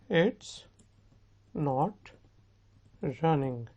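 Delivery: each word set apart by pauses; word-by-word model. Shown as a demonstration. Teacher answering own question for students, word by word. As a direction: give the answer one word at a time.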